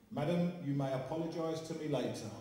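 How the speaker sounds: lightly voiced stately old medium, with a laugh; a mild mock of a grand, formal medium; imitating Gordon. Medium doing Gordon to the audience, a light laughing mock. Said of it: "That was my quick impression of Gordon".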